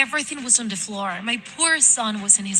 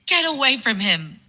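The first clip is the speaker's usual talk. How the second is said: higher-pitched desperate order; raised, urgent cry to protect a son; desperate warning; 5 semitones higher, 4 dB louder than usual. Acted. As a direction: order the monster away from your child. Mother confronts monster attacking son.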